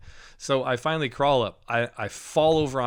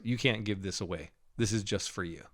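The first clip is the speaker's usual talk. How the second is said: Holy Spirit voice; 3 semitones lower, 7 dB quieter than usual. Retold or imitated. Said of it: "the Holy Spirit goes".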